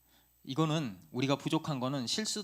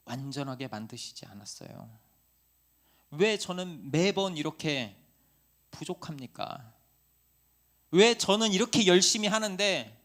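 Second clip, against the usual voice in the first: louder, pleading cry to God that falls back at the ends; a frustrated believer pleading with God; complaining prayer; 2 semitones higher, 6 dB louder than usual. Retold or imitated. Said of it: "때로는 원망스러워요".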